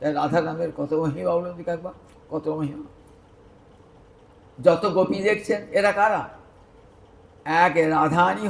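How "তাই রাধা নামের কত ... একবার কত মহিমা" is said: hushed awe. Acted. Awed reflection on the name.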